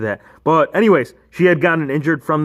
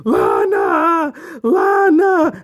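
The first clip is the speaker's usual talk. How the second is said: calling out; 11 semitones higher, much slower than usual. Retold or imitated. Rusev calls to fallen Lana.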